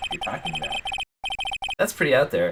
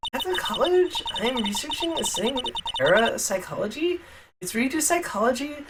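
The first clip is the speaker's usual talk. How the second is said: put-on high, airy Valley Girl; 8 semitones higher than usual. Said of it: "Valley Girl voice".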